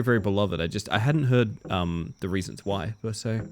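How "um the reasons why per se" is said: sleepy voice. Real, not acted. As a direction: let it drag like you're drowsy. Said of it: "I'm getting my sleepy voice".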